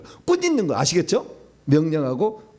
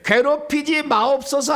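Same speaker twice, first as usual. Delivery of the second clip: pleading demon; 10 semitones higher, 4 dB louder, slower than usual. Acted. Demon pleading in scripture reading.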